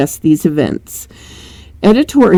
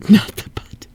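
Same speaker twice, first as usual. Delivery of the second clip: laughing retake. Real, not acted.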